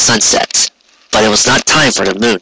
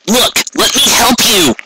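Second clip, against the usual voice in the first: much higher, slow, pleading pony voice; urgent Rainbow; 11 semitones higher, slower than usual. Acted. Rainbow pleads with the wounded captain, high and urgent. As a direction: beg to help him, pitched way up.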